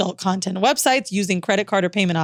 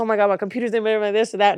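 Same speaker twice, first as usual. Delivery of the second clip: panicked, freaking-out voice. Retelling a date's reaction to his stolen car: imitating someone freaking out. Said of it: "He's freaking out".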